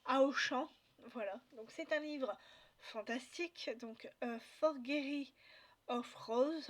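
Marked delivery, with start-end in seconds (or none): 4.6-6.7 English title with a French accent. Real, not acted. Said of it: "désolée pour mon accent, euh, anglais". (anglais avec un accent français)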